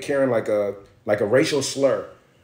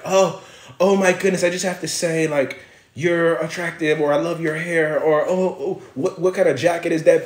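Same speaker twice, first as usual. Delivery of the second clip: mock drunk gushing woman; 2 semitones higher than usual. Imitating drunk white woman.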